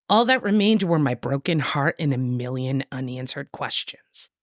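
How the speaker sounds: low, hushed book blurb read; dramatic reading. Acted.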